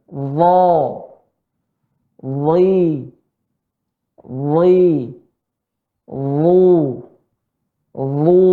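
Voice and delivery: DHA, DHI, DHU each held long and heavy; thick letter drill. Shown as a demonstration. Teacher leading participants in practice, thick drawn-out DHA, DHI, DHU. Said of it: "Semua peserta harap melatih".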